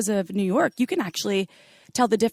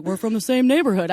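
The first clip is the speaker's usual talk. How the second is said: lightly attempted British accent, unintentionally like Mister Rogers; mild British imitation; 2 semitones higher, 4 dB louder than usual. Retelling the British stranger's reply, mild accent imitation. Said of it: "sounds like Mister Rogers".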